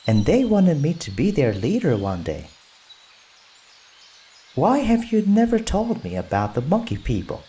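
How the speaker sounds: put-on high eager boy voice; Mowgli excited. Mowgli defending the monkeys, high and eager.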